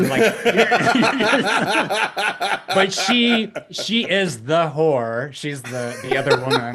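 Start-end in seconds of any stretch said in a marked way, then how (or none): 0.0-5.3 laughing. Real, not acted. Laughing at the irony.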